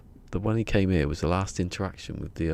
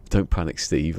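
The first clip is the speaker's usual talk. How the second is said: pretend phone call; 5 dB louder than usual. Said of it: "like that".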